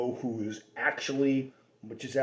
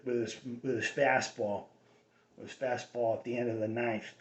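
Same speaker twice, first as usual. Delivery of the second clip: Boston accent. Shown as a demonstration. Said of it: "there's two accents in Boston".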